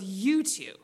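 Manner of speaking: lightly voiced stern mom, low; understated teacher's verdict. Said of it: "my mom whips around. She goes".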